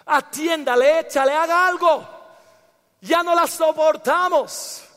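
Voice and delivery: acted pleading of fed-up disciples; exasperated complaint. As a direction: beg for action, at the end of your patience. Disciples complain about the shouting woman. (queja exasperada, actuada)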